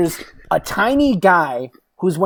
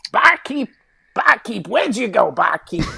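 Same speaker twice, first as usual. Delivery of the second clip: calling out; 5 semitones higher than usual. Acted. New character calling for barkeep.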